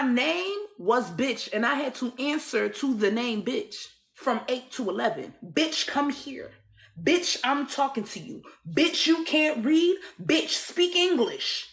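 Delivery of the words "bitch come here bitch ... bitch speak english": acted-out slow, higher-pitched scolding; harsh orders. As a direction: imitate a woman ordering a child about, drawing out each command. Acting the abusive woman's orders.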